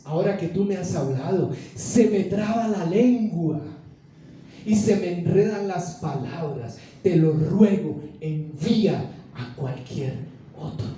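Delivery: imploring, with stretched phrases; pleading. Retold or imitated. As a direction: beg haltingly, drawing words out. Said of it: "le rogó y le dijo".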